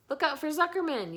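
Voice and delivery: high, loud gander yell. A narrator's reading. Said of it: "yelled the gander".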